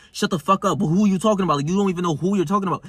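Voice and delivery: understated mock confrontation, quickening at the end; getting tight. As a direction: fire back at the doubter, a touch indignant. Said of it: "how tight I get when I say these things".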